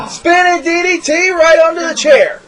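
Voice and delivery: excited shout. Real, not acted. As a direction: call the big move with hype. Big move called in commentary.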